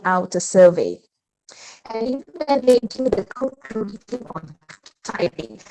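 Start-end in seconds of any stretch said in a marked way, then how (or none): 1.9-5.6 choppy, dropping-out audio; garbled bad connection; glitchy robotic call. Real, not acted. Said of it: "you're still breaking up".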